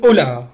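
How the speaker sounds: أولى ending on the open vowel, no glottal stop; أولى said the Banu Tamim way, hamza left off; shortened form without hamza. Shown as a demonstration. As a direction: drop the hamza at the end of أولى. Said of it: "بالقصر يعني بحذف الهمزة".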